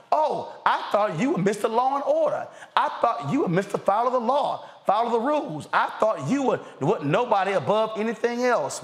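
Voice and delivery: sarcastic mockery.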